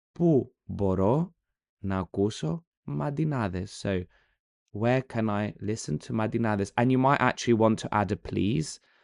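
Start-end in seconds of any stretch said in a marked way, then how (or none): 0.2-3.8 very slow, drawn-out Greek phrase. The speaker repeats a greek phrase for learners, slower. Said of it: "I'm going to do it again a bit slower".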